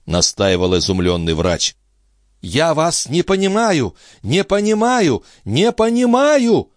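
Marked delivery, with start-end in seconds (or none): 2.4-6.7 building from high to much higher, slowing at the end; each repeat climbs more desperately; rising insistence. A narrator's reading. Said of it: "трижды повторила Андреа". (всё выше и отчаяннее)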